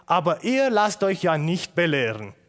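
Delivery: loud, accusing preacher's reproach; stern rebuke. Acted. Stephanus reproaching the council, loud and accusing. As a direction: hammer the rebuke home.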